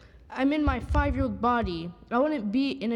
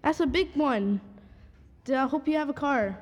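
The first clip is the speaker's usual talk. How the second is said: stern future self; 5 semitones higher than usual. Retold or imitated. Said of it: "I'd be".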